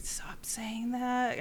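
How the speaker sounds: slow, hushed cranky retort. Retold or imitated. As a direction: grumble it under your breath, fed up. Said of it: "I was so cranky".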